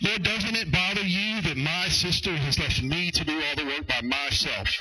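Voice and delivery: self-centred protest with "my", "me", "myself" highlighted; stress on me's and my's. Acted. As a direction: punch "my", "me" and "myself". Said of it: "I tried to highlight the three me's and my's".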